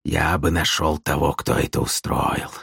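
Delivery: wheezing. Acted. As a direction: wheeze it out, head on table. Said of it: "засипел тяжело".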